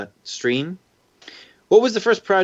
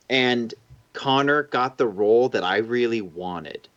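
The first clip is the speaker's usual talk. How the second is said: ordinary talk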